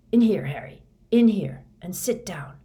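loud, urgent call. Acted. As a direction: hurry him in loudly. Moody urging Harry inside.

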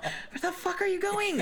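high-pitched, laughing gamer outrage; mock mad cussing. Player cussing at teammates while muted, mock mad. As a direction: squawk it in comic exasperation. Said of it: "you know how mad I get".

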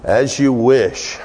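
the preacher quotes the Princess Bride hero, slow and tender; Wesley. Retold or imitated. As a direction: say it slowly, as a devoted promise. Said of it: "as Wesley would say".

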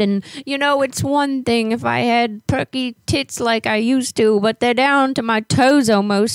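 lightly voiced old lady with a hint of English accent. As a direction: play a fussy old neighbor lady on a prank call. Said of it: "when I talk like an old lady, I get, like, this English accent".

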